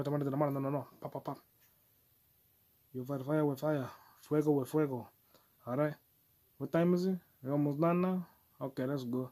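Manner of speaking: lightly put-on Latino accent; bad Latino accent. Podcaster mocking up Miles Morales talk, bad Latino accent. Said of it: "in my bad accent".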